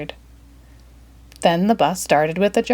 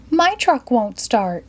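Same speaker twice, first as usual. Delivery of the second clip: put-on higher, slow old granny; a fretful granny voice; lightly voiced worried granny; Granny Smith; 5 semitones higher, slower than usual. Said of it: "Granny said".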